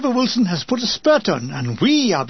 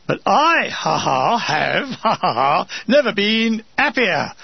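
laughing. Retold or imitated. Laughing through the words.

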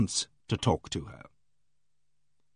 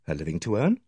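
puzzled; 6 semitones lower than usual. Acted. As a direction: echo "earn" back as a puzzled question. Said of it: "I said, puzzled".

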